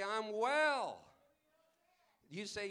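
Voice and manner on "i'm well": loud, confident proclamation; bold declaration. Acted. Preacher voicing the sick who declare healing, loud. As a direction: proclaim it like it's already true.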